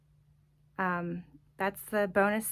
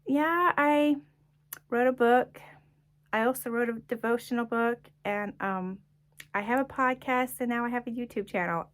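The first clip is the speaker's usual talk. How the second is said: high, louder start, easing off as the list goes; acted bold admission, pitched up; owning up proudly; 4 semitones higher, 4 dB louder than usual. Author now answering snarky people, openly owning up. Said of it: "now I'm like".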